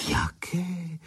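high, hushed curious question; curious probing. Acted. Zuzka eagerly probes Honza about his wish, hushed. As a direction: ask eagerly, half whispered. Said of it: "vyzvídala Zuzka".

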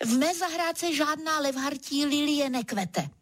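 vyšší, umíněné odseknutí; sveřepě. Acted. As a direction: odsekni to tvrdohlavě. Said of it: "Odseknu a tvářím se sveřepě". (umíněné odseknutí levhartovi)

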